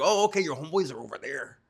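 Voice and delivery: mock nerd voice for the prison guard; Poindexter voice. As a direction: play the prim nerd, over-proper. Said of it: "my best Poindexter voice".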